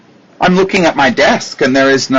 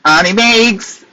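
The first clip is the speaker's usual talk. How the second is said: calling out; 5 semitones higher, slower than usual. Acted. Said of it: "calling out nickname".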